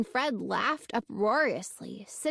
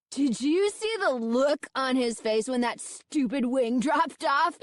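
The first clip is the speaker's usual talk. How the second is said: cried out; 3 semitones higher than usual. A narrator's reading. Fred laughing at the man's startled face, cries out excitedly. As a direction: crow it out between laughs. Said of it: "Fred cried".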